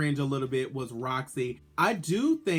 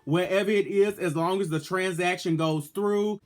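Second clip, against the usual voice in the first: sassy diva voice; 2 semitones higher than usual. Retold or imitated. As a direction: demand the prize money like a diva asking for payment. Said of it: "Adore should have been like".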